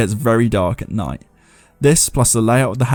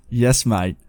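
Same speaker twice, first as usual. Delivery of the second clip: Australian accent. Shown as a demonstration. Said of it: "with an accent".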